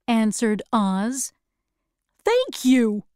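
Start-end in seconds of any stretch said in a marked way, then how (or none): 2.2-3.0 Tin Woodman's thanks. Acted. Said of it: "said the Tin Woodman".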